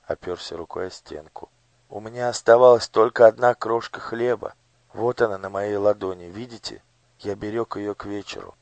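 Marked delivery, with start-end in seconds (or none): 1.9-8.5 put-on higher, earnest boy; pleading boy. A narrator's reading. Gurt shows the minister his last crumb. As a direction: show him the crumb, begging.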